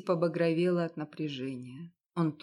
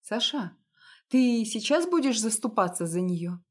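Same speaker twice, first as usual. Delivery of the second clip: higher, louder, pressing him; outraged plea; 4 semitones higher, 5 dB louder than usual. Acted. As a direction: confront him hard. Wife confronting husband about her. (жена в ярости убеждает мужа, громче и выше)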